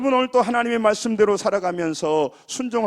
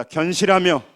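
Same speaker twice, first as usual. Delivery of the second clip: loud, firm call-out to the congregation; emphatic, projected call-and-response line; lead for repeating; 8 dB louder than usual. Shown as a demonstration. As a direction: proclaim each phrase for them to echo. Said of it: "따라서 합니다".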